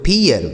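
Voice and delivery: फियर said with long ee gliding into "-yar"; ear vowel glide. Shown as a demonstration. Teacher reads out the word for pupils, फियर with an ee-yar glide. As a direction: say फियर as "fee-yar", two beats. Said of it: "ई ए का उच्चारण हो गया ई".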